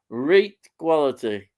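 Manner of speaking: "Reet quality" with broad Yorkshire "reet". Retold or imitated. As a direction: stretch "Reet" into a long northern ee. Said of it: "he's a southerner".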